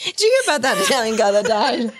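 fast, laughing through the words. Real, not acted. Trying to retell the joke between giggles, fast and laughing. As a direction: blurt it out while cracking up.

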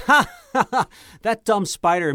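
high, loud cackling goblin laugh; dwarf imitating a goblin mocking the spider, cackling. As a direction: laugh it out like a mean little goblin. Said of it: "goblin who was laughing".

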